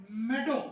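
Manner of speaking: मेडो said as meh-do, short e, rising; meadow, short e. Shown as a demonstration. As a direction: say मेडो with a short e, not मीडो. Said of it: "मीडो नहीं होता". (मेडो, छोटी ए के साथ)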